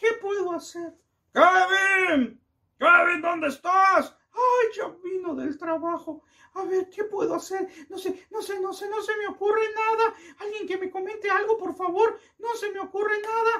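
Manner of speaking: put-on sobbing child voice.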